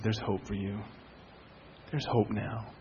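low, soft words of comfort; gentle reassurance. Retold or imitated. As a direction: quietly reassure someone in distress. Pastor consoling a distraught couple.

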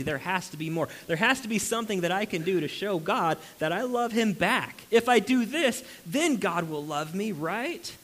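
a religious friend insisting, rising to near shouting; insistent striving believer. Retold or imitated. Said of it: "They will say".

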